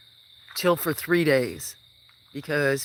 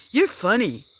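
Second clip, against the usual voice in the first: put-on little boy; 8 semitones higher, 6 dB louder than usual. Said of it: "One little kid goes".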